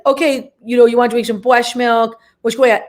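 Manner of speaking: lightly slurred, mushy sibilants; a touch of a comic speech impediment. Retold or imitated. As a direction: talk with a mock lisp-like impediment. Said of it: "I did a speech impediment".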